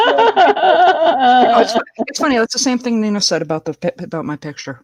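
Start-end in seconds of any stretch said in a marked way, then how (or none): 0.1-2.4 laughing. Real, not acted. Laughing while recounting a photo.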